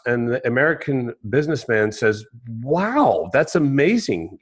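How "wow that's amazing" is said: lightly acted amazed admiration; a drawn-out, mildly wowed reaction; impressed. Businessman admires the fisherman's big catch, impressed.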